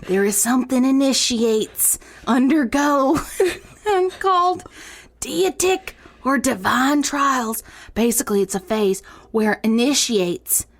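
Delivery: put-on reading in a Southern belle accent drifting Cajun; Southern belle accent sliding into Cajun priestess. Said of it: "morphed from a Southern belle to, like, a Cajun priestess".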